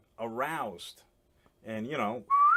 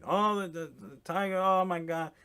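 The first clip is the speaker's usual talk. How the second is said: imitating her giddy gush, a little higher; excited wife; 4 semitones higher than usual. Wife at the tiger habitat, mock excited gushing. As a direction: gush over the tiger cub like a delighted animal lover. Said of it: "she's so excited".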